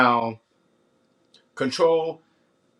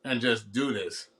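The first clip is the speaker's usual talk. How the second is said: words round a mouthful; chewing while talking; 3 dB louder than usual. Real, not acted. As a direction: still chewing between words. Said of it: "I'm sorry, I'm chewing".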